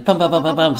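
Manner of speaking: rapid "pum" punches; pum-pum-pum hitting noise; imitated beating. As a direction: voice a quick volley of blows. Acting out someone beating you.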